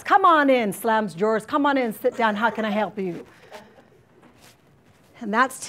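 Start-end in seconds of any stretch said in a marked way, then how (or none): 0.0-0.7 loud, higher cheerful welcome; imitating cheery colleague. Counselor mimicking her coworker welcoming a student, louder. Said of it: "that's what he does". 1.5-3.2 lightly imitating cheery colleague. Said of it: "that's what he does".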